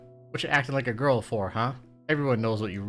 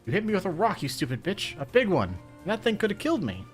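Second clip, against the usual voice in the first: outraged shriek; 10 semitones higher, 5 dB louder than usual. Acted.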